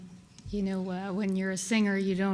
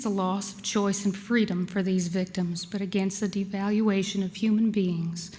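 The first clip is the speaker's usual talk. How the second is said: formal speech. Acted.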